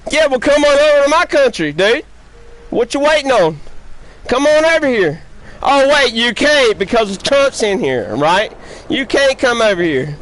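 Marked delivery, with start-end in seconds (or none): 0.1-8.2 raised, fast mocking challenge; angry taunting. Real, not acted. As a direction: goad him to come over, voice up high. Taunting rival player in game lobby.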